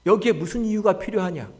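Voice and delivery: rhetorical challenge building to a high, loud cry; defiant sermon crescendo; impassioned preaching. Acted. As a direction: build steadily to full pulpit force.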